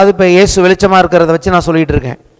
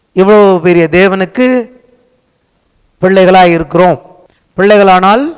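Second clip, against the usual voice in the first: louder, declamatory phrases with rising ends; forceful preaching; 7 dB louder than usual. Real, not acted. Preacher exalting God before the congregation, forceful declamation. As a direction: proclaim it in measured, emphatic phrases.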